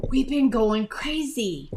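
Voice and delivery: hushed whispered aside. Real, not acted. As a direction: drop to a whisper.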